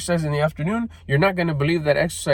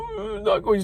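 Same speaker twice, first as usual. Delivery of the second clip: high-pitched wailing whine; put-on whiny sob; mock crying. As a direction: imitate a crybaby, pitch shooting way up. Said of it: "that crying bullshit".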